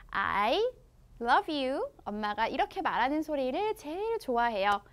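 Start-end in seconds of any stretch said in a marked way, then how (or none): 0.1-1.9 mom's loving words. Retold or imitated. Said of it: "엄마가 이렇게 말할 때".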